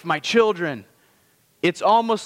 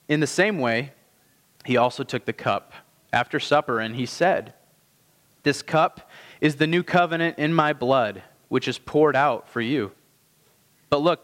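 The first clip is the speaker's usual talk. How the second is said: measured, lower scripture reading voice; 3 semitones lower than usual. Acted. Pastor reading Scripture aloud to the church, measured and low. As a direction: read the Gospel passage to the congregation with weight.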